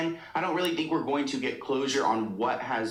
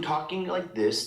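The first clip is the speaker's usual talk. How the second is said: demonstrating the lower speaking voice; lower voice demo. Shown as a demonstration. Showing how Ariana changes speech, lower voice. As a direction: drop into her lower register. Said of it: "she changes the way that she speaks".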